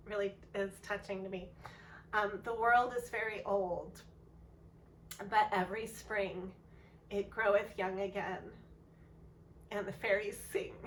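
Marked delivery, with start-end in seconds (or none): 2.4-10.7 composed second reading, keeping tears away; the same verse, now steady and sincere; steadier retake. Real, not acted. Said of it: "I'll read it again".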